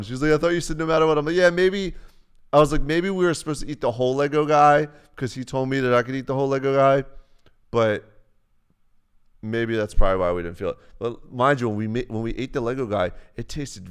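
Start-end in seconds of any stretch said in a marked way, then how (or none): 0.3-1.2 accusing callout. Retold or imitated. Girlfriend calling him out. 1.4-1.9 sheepish dodge. Retold or imitated. Sheepish reply. 2.8-10.8 eager rationalizing. Retold or imitated. Excited justification.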